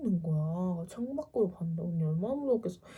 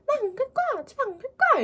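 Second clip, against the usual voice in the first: high-pitched tantrum wail; high, insistent shouted protest; retold drunken refusal; 6 dB louder, faster than usual. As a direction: act out a stubborn sister yelling, far above your own pitch. Sister refuses to go home.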